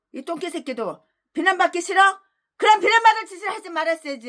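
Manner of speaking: high, fast scolding; mock them, then slam the verdict; taunting rebuke. Real, not acted. Preacher taunting critics who hate blame.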